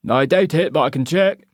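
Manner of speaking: high, lightly voiced local barman; Scottish barman. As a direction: ask like a curious bartender. Barman answers.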